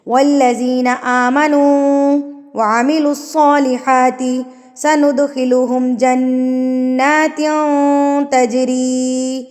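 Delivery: slow, measured tajweed chant; Quran recitation. Acted. Teacher reciting the verse for students, measured chant. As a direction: recite each phrase slowly with long vowels.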